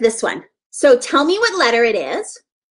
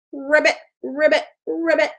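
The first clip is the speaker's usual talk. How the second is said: frog croak; 4 semitones higher than usual. Pretend. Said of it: "The frog says".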